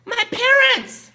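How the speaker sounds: high, loud, slow answer breaking into laughter; giggling answer. Retold or imitated. Tina answering her boss's quiz, high and giggling.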